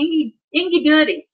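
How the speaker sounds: "Ingy" for "give me", "goody" as "doody"; toddler baby talk. Retold or imitated. Toddler begging for a treat, baby-talk "Ingy goody". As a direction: repeat "Ingy" like a small child begging. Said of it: "Ingy meant "give me".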